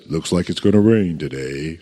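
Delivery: low, glum drone; Eeyore. Acted. Quoting a discouraged character to the congregation, low and gloomy. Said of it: "remember Eeyore? ... He always says".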